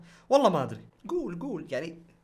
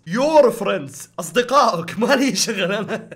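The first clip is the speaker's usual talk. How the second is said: loud teasing; 6 dB louder, slower than usual. Acted.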